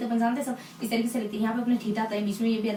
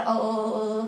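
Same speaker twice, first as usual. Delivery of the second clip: put-on stammering child; 2 semitones lower, much slower than usual. Shown as a demonstration. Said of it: "थोड़ा तुतलाता है".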